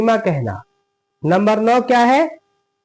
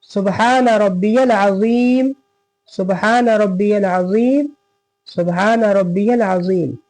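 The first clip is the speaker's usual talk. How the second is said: tasbih recited. Shown as a demonstration. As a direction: recite it three times calmly. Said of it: "रुकू की तस्बीह क्या है?".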